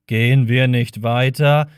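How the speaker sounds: mimicking him mockingly; mocking imitation. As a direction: parrot the question back with scorn. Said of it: "äffte Marvin ihn nach".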